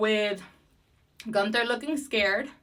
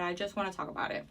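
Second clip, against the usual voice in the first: softer and lower, said to himself; a softer, lower echo of the line; quieter repeat; 4 semitones lower, 9 dB quieter, much faster than usual. Shown as a demonstration. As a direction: drop it to a muttered aside. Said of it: "and I just wanna talk about it".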